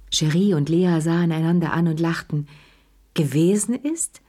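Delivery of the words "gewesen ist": rising, pointed "Gewesen ist?" with weight on "Gewesen"; stressed. A narrator's reading. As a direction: lean on "Gewesen" as an ironic question. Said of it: "betonte Lea".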